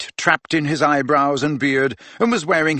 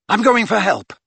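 higher-pitched urgent call; shouting over wind; 7 semitones higher, 4 dB louder than usual. A narrator's reading. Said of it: "he shouted at the others over the howling wind".

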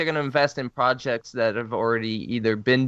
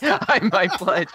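laughing echo; 3 semitones higher, slower than usual. Retold or imitated. Echoing with a laugh.

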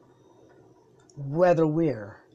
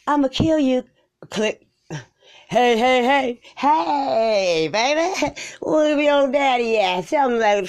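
loud caller; 7 semitones higher, 5 dB louder than usual. Pretend. Prank caller voice.

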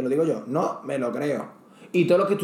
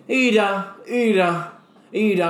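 ira ira ira a bit louder, mocking; mock the smart guy with ira ira ira; sarcastic ira; 3 semitones higher, 3 dB louder, much slower than usual. Shown as a demonstration. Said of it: "como diciendo, "El listo este".

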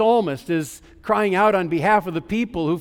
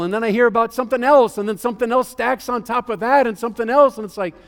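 mounting anxiety; 5 semitones higher than usual. Retold or imitated. Voicing mounting worry.

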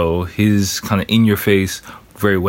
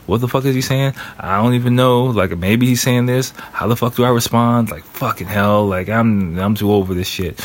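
mildly flustered inner monologue, imitated; stressed out; 3 semitones higher than usual. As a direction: voice his panicky thoughts, easing into mock exasperation. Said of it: "he's just stressed out trying to think".

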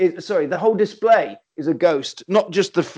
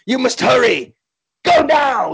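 mock urgent command; 3 semitones higher than usual. Old man sending the heroes off, hammed-up urgency. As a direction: push them out the door with hammy urgency.

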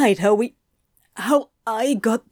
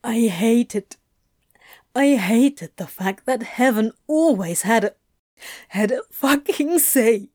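voice breaking. A narrator's reading. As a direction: voice cracking with hurt over heaven's control. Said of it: "his voice really did break then".

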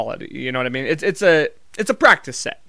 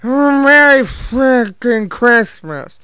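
long drawn-out, high rolling bellow; booming put-on holiday cheer; Irish Santa greeting; 6 semitones higher, 6 dB louder, much slower than usual. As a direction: roar it out slowly as a rowdy Santa. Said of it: "he'll say".

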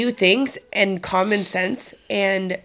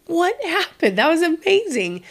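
much higher, thrilled disbelief; amazed; 10 semitones higher than usual. Retold or imitated. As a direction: gush with delighted surprise. Mother amazed at daughter's stop.

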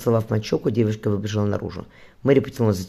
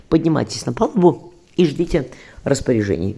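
a higher, louder order from an official; stern command; 5 semitones higher, 4 dB louder than usual. A narrator's reading. Official commands the surgeon up on deck, stern and loud. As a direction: bark the order at the ship's surgeon. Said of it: "велел незнакомец".

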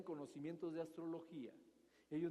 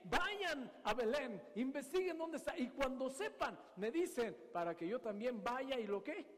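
higher, cunning king giving orders in secret; sly Herod; 4 semitones higher than usual. Retold or imitated. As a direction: coax the magi while hiding his plan. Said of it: "los llama en secreto y dice".

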